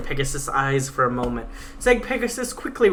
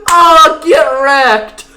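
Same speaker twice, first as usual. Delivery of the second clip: loud, higher gloating yell; gleeful shout; 11 semitones higher, 15 dB louder, much slower than usual. Real, not acted. Reader gloating over the Pegasus's burn, a loud gleeful shout. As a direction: shout it out triumphantly.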